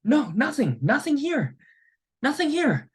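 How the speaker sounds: high-pitched put-on protest; mock indignant denial. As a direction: imitate an offended man proving his innocence. Acting offended guy emptying his pockets.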